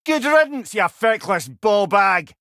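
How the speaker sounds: high, loud mocking yell, slowing on the insult; jeering shout. Head jeering after a fallen berserker, loud mocking shout. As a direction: jeer them off, drawing out ballbag.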